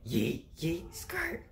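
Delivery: high, drawn-out comic catchphrase; stretched-out, high-pitched mock rapper ad-lib; skit catchphrase imitation. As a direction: mimic a silly sketch chant, slowly. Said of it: "from the Yeet Skirt s-, skit".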